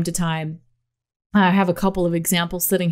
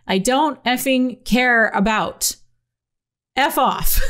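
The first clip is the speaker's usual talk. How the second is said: a hammed-up angry shout, pitch raised; mock yelling; 4 semitones higher, slower than usual. Reading out a rude fan's all-caps message with a mild mock yell. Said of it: "So now he's yelling".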